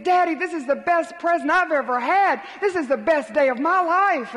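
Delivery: put-on thrilled child thanking his daddy; excited boy. Boy thrilled by circus ticket.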